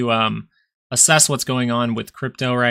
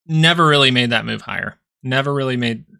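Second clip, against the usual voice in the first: hiccups. Real, not acted. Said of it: "Sorry, I'm hiccuping a bunch".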